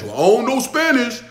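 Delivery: mocking someone turning down a million-dollar job; mock whiny excuse. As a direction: play the quitter who won't learn Spanish. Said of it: "Okay, but you gotta learn Spanish".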